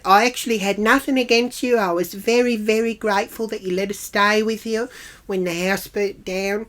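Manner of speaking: lightly tearful put-on voice; mock teary. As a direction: mimic a woman getting weepy as she pleads. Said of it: "She starts getting all teary".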